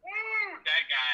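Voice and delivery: high, slow hyped whoop; excited. Real, not acted. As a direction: whoop it up for him. Hyping up a broker.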